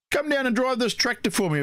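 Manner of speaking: lightly put-on Red asking a favour; imitating Red. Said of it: "And he goes".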